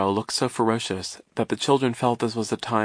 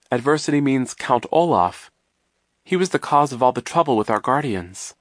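lightly voiced boy, a little higher; earnest boy; 5 semitones higher, 4 dB louder than usual. Klaus explaining the trouble to the vice principal, earnest. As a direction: explain it sincerely, pitched slightly up.

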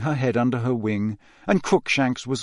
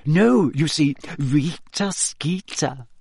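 quiet triumph; 4 semitones higher, slower than usual. A narrator's reading. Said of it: "voice trembled with quiet triumph".

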